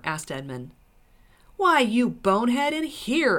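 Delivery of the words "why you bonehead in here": loud, high, exasperated dwarf; scornful retort. A narrator's reading. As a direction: throw the insult back, raised voice. Dwarf insults Edmund in story.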